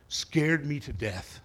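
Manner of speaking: slow, drawn-out scared me to death; slow repeat. Shown as a demonstration. Preacher repeating his fear to the congregation, slowed down. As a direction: lean on Scared me to death slowly for weight.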